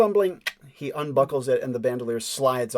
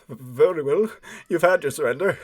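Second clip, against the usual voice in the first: grudging surrender; 3 semitones higher, 4 dB louder than usual. Acted. Beaten man gulps and grudgingly yields.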